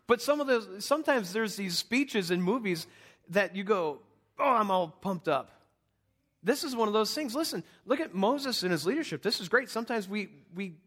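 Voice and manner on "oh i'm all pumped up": mock excitement, a little louder; pumped-up viewer. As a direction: imitate a movie fan getting fired up. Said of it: "it gets everybody excited".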